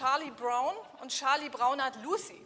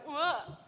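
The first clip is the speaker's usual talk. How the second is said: mock swoon. Shown as a demonstration. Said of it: "Wo Sie gleich jetzt heute noch sagen".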